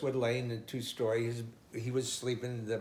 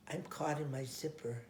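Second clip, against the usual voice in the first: crying son; 2 semitones higher, 8 dB quieter than usual. Retold or imitated. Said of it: "And he's crying".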